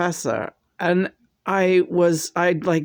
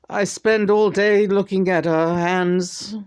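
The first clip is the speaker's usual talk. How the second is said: channeled John; 4 semitones higher than usual. Acted. John speaks through her.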